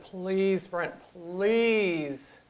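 drawn-out, imploring please; beg, stretching the last please; earnest retold plea to a son; retold pleading. Retells begging son at door.

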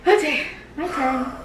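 a loud, high eager call; excited. Real, not acted. Friend eagerly grabs her turn at the color wheel. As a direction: claim your turn with a burst of glee.

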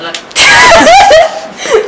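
shrieking high laugh; loud burst of laughter. Real, not acted.

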